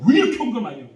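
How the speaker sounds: loud, high mock rant; hammed-up grumble about the offering; angry young man yelling at his pastor, hammed-up; imitating angry youth. Voices angry youth complaining.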